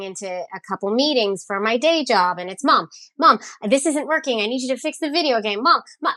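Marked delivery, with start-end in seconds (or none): 2.6-6.1 put-on nagging kid voice. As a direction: play the kid who won't stop tugging at mom. Kid nagging mom during meetings.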